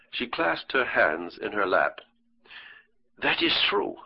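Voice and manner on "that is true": eager, lifted higher; grasping at new hope, pitched higher. Acted. Lady answers the doctor's question, eager and higher. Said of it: "she said eagerly".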